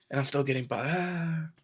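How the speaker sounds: hushed imitation of someone losing it; mock mad yell. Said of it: "he gets even more mad".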